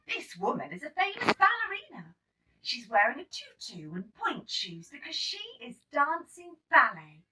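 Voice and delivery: explaining teacher. Acted. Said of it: "Teacher Sarah explained".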